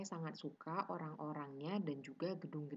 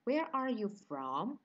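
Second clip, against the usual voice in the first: slow, higher and louder teaching delivery; slow model question; 5 semitones higher, 5 dB louder than usual. Shown as a demonstration. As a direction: model the question slowly for learners.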